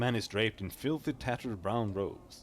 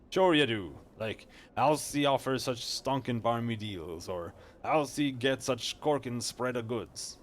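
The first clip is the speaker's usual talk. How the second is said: slower, mocking street-slang voice; cheeky companion; 4 dB louder than usual. Sidekick mocking the merchant's deals, cheeky slow slang voice. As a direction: tease him like a cocky sidekick.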